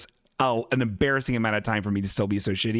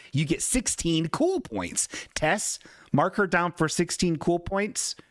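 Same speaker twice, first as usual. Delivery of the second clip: mock ceremony; 5 semitones higher, slower than usual. Awarding points to chat member.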